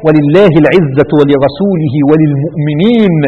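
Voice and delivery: slow, sustained verse recitation; Quranic recitation. Real, not acted. Preacher telling listeners to hear the verse, measured recitation. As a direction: draw the verse out slowly and firmly.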